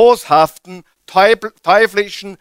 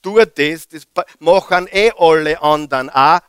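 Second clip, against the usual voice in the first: tempter's whisper; 2 semitones lower than usual. Retold or imitated. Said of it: "diese flüsternde Stimme".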